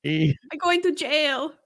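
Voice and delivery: slow, drawn-out attempt at a Hispanic accent. Shown as a demonstration. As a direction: stretch it out in an amateur Hispanic accent. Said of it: "that's about as good as it gets".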